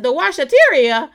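loud, high, laughing disbelief at the word; delighted disbelief. Retold or imitated. Friend retelling her own amused reaction, laughing surprise. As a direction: repeat the odd word back, cracking up. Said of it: "I said".

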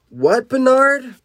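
high, drawn-out surprised call; high acted surprise; startled question. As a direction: call it out in disbelief. Startled character answers a voice.

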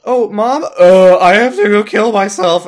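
put-on high, loud childish whine; mock child voice. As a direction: squeak it like a kid caught out. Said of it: "they're like".

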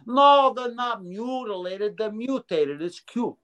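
lightly voiced New Jersey guy correcting him; New Jersey accent. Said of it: "And he talked like this".

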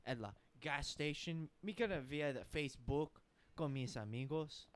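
put-on Mexican accent. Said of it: "but it'd be like".

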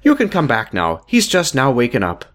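lightly done Irish doctor; a hint of a Northern Irish accent. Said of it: "this person has a different voice".

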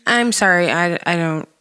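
high, drawn-out mock cluelessness; Rebecca voice. Shown as a demonstration. Showing co-hosts her work voice, put-on Rebecca voice. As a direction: play baffled and apologetic, stretching words upward. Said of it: "I throw on my Rebecca voice".

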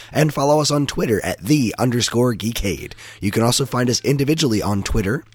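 lightly sultry ad read; a hint of a sultry announcer. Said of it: "Use that sultry voice for one last time".

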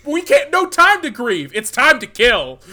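loud, high, hyped-up rush; pumped-up shouted movie pitch; excited shouting. Real, not acted. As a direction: sell the chase scene like it's the best thing ever. Hyping up the movie's chase scene.

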